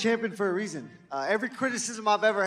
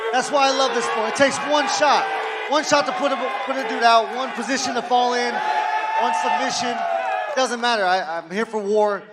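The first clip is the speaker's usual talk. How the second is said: loud, punchy, higher fight talk; gruff punchy boasting; 4 semitones higher, 7 dB louder than usual. Real, not acted. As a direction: hammer each short phrase home. Fighter boasting at press conference.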